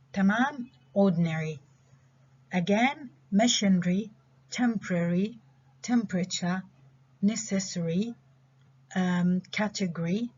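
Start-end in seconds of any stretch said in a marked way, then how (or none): 0.9-1.6 ORDINARY squeezed to "ORD-n-ree"; reduced pronunciation. Shown as a demonstration. Teacher repeating the example for students, reduced pronunciation. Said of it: "So we reduce this again". 3.3-10.3 word list with weak vowels squeezed out, "temporary" as "TEMP-ree"; reduced pronunciation. Shown as a demonstration. Teacher reviewing reduced words one by one, reduced pronunciation. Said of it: "So we reduce this again".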